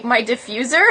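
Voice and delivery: normal talking voice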